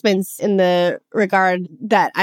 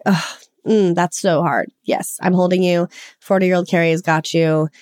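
gently lowered, comforting voice; soothing self-mothering. Acted. Adult self holding her inner child, soothing. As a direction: comfort a hurting child, unhurried. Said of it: "going back to that inner child and saying".

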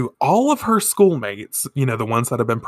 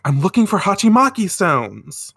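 higher-pitched, flustered character voice; 7 semitones higher, 3 dB louder than usual. Acted. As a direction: answer as a flustered schoolgirl. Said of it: "Minako in a fluster is like".

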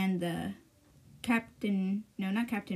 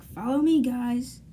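a raised call to the troops; rallying call; 3 semitones higher, 5 dB louder, slower than usual. Retold or imitated. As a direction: call them to follow you. King calls his men along.

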